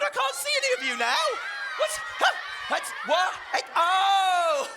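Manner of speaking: high, laughing mock confusion. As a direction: giggle through the clowning. Clowning with upside-down blueprint.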